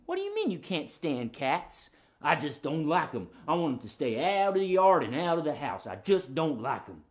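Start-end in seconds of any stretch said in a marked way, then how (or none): 2.2-7.0 lightly lowered grumpy dog voice; stubborn puppet dog. Pretend. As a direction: complain as a territorial dog.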